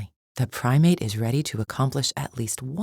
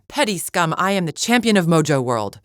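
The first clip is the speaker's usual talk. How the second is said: raised, forceful, haughty proclamation; indignant boast; 4 semitones higher, 4 dB louder than usual. Acted. Champion putting petty scum in their place, indignant. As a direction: proclaim your title in outrage.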